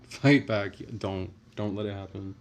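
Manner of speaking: loud laughing shout, falling at the end. Real, not acted. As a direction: shout it again through a laugh.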